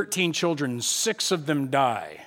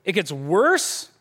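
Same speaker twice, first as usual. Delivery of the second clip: bewildered protest; 4 semitones higher than usual. Acted. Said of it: "stuck in this scenario where they're like".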